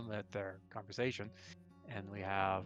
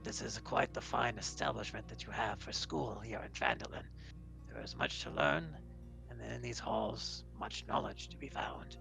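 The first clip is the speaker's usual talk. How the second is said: measured, formal robot-like voice; metallic construct, courteous. Acted. Sabrak takes a seat and praises the school, courteous metallic voice. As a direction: speak as a courteous metal being.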